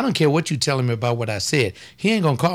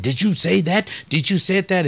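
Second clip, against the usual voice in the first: indignant challenge; 5 semitones higher than usual. Retold or imitated. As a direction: press him twice, incredulous. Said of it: "when Charlton said".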